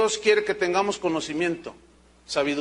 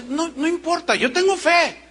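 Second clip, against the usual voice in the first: lightly voiced believer; 9 semitones higher than usual. Pastor voices sick convert's faith.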